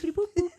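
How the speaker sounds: loud, high beep-boop ATM noises; mock machine beeps. Client playing a human ATM, loud mock beeps. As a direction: chirp like a cash machine keypad. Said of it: "send it in a beep".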